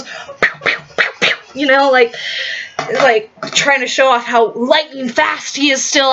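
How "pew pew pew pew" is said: imitated punch sounds. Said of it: "And he goes".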